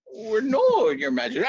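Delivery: high, sheepish reply; sheepish servant. Acted. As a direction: admit it nervously.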